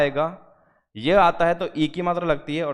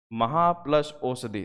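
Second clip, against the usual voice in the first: महा प्लस औषधि said slowly, part by part; slow dictation; slower than usual. Shown as a demonstration. Teacher to students dictating the split, slowly. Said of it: "महा लिखते हैं हम".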